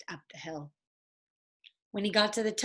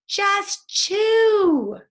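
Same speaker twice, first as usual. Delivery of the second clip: high, loud, urgent order; insistent shout; 11 semitones higher, 8 dB louder than usual. Acted. Jack orders Annie to pretend to chew, high loud urgent. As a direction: bark the order, no time to argue.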